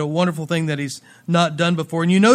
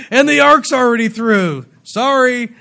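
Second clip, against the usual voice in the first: raised, louder teasing call across a river; mock calling back; 4 semitones higher, 5 dB louder than usual. Preacher plays Israelites looking back at a straggler, mock calling back. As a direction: call it over with a mock apology.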